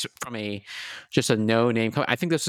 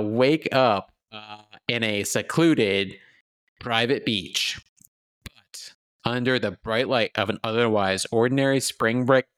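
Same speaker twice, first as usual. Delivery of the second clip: movie announcer voice. Acted. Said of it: "Get my movie announcer voice going on here".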